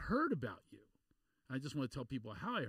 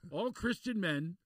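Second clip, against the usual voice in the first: imitating the introducer; 4 semitones higher, 3 dB louder than usual. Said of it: "He says".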